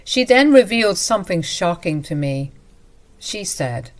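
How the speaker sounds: usual speaking voice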